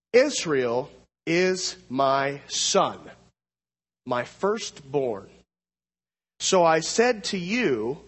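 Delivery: slow, weighty reading of the verse; solemn scripture reading. Acted. Preacher slowly reading God's warning to Pharaoh, solemn. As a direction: read it out slowly, with gravity.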